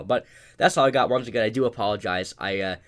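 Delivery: winded, short of breath; pushing words out between breaths. Real, not acted. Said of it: "I'm out of breath here".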